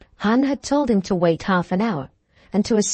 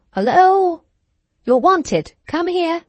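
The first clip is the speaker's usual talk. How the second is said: high, raised calling voice; shouting back; 10 semitones higher, 5 dB louder, slower than usual. A narrator's reading. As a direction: holler a reply across the garden. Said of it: "A voice from the rose garden shouted back".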